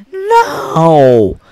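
loud, drawn-out shout; arguing father; stubborn refusal. Acted. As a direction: dig in with a hollered word. Father argues with the man.

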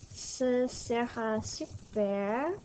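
Ce sera super said slowly with a rising end; teacher drawing out ce sera super; slow model phrase. Shown as a demonstration. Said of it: "So it will be cool".

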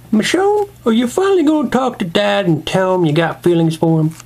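urging figure voice, high on the name; lightly voiced kid. Kid urging Michonne to confess to Dad, coaxing. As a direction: call out high, then press the question.

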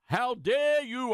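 mock enraged mayor. Host mocking the mayor's outrage over the word thugs, slow and hammed-up. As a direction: drag out the indignation like a pompous politician. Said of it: "he's just enraged over this".

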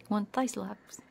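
ordinary talk

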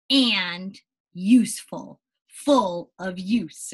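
put-on slow, clear read-aloud for children; story reading. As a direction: read the happy ending to the class. Reads picture book to class.

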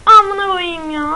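high, loud, slow curse; frustrated outburst. Real, not acted. Gamer cursing at an enemy. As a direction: drag out an angry curse.

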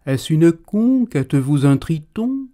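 soar like a poet; lyrical. Acted.

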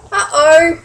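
loud, high teasing uh-oh; playful uh-oh. Real, not acted. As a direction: warn the listener playfully. Reader reacts to the danger.

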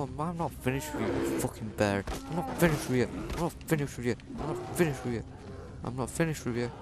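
furious gamer taunting a bear; angry repeated threat. Real, not acted. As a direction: keep hammering the threat.

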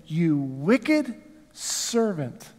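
very slow, weighty condemnation; angry rebuke. Acted. King summoning the servant, slow angry rebuke. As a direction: drag out each word in cold anger. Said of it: "And in his anger".

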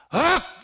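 a piercing single yell; shrill shout. Retold or imitated. Disciple shouting at the master, loud piercing cry. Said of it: "이런단 말이에요".

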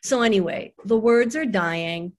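lightly voiced chatty child explaining; Rachel. Daughter explains books and death to her mother, light child voice. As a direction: explain earnestly like a little girl, lilting. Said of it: "this is really all in Rachel's voice".

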